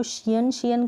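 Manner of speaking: "शियन" as shi-yan, both vowels sounded; wrong two-syllable ending. Shown as a demonstration. Teacher warning against this ending, "शियन" as shi-yan. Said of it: "करके नहीं बोलना है".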